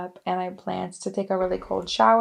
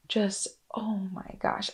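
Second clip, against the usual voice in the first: whispered; 6 dB quieter than usual. Retold or imitated. Recalling sobbing.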